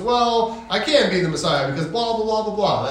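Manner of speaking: Jesus answering. Retold or imitated. Jesus answering the crowd, calm and even. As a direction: answer back evenly, unbothered. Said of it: "And he goes".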